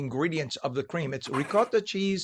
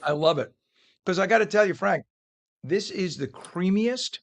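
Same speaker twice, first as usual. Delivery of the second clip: mouth full. Real, not acted. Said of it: "my mouth is full".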